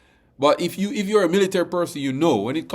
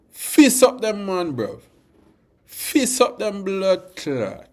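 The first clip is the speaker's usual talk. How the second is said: put-on Jamaican accent; 4 semitones higher, slower than usual. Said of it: "may I get a Jamaican accent today".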